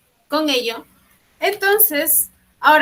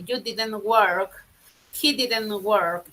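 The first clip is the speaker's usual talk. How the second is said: slow model sentence; much slower than usual. Shown as a demonstration. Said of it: "La expresión suena igual".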